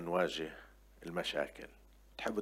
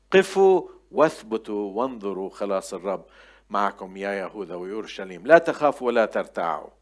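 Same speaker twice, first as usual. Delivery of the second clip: emphatic, raised-voice scripture reading; proclaiming scripture; 6 dB louder than usual. Acted. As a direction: ring out the commands to the congregation. Reads scripture aloud forcefully. (قراءة كتابية جهورية)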